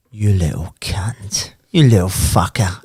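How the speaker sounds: slow, hushed whisper of disbelief; whispered swearing. Retold or imitated. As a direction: breathe it out in awe. Teddy's awed swearing in taxi.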